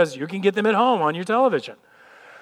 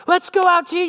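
much higher, chirpy invitation voice; eager family member; 11 semitones higher, 4 dB louder than usual. Retold or imitated. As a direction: pitch it up like an eager spouse. Family asks to go out.

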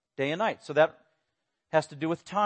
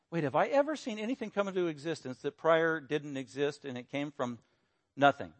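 trailing into a quieter puzzled question; thinking it over quietly; musing to self; 6 dB quieter than usual. Acted. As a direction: wonder aloud, sinking softer towards "nothing". Voices a puzzled inner question.

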